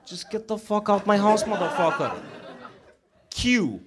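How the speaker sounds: high-pitched cursing character reciting the alphabet; high, insistent get-out-of-my-house character; foul-mouthed character. Acted. Comic performing an alphabet piece for the crowd, high cursing character voice. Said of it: "accuracy of that character".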